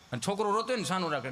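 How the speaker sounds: ordinary delivery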